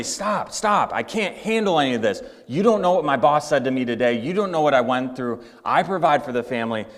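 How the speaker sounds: angry outburst. Acted. Exhausted father loses it at his family, fast angry rant. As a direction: vent it all at once, fast. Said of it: "He yells at his family".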